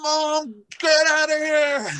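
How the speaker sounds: high, pleading, slowed "get out of here"; embarrassed son. Retold or imitated. Son shooing his mom out of the locker room, high and embarrassed. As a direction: hiss it like a mortified teenager. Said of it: "And I'm like".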